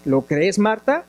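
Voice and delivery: measured, even Bible-reading voice; scripture reading. Acted. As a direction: read the passage steadily to the congregation.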